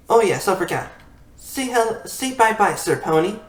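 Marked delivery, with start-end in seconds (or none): 1.4-3.4 talking pony. Acted. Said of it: "that was a messed up pony, pony, um, impression".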